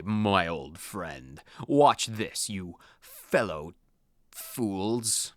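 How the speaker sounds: a hint of a pompous rival boy gloating; rival schoolboy. Rival boasts to Din, lightly voiced smug rival.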